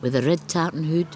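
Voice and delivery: measured recitation, each line set apart by pauses; poem reading. Acted. Poet reading her bilingual poem to the interviewer, steady recitation. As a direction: read it like a poet giving her own verse.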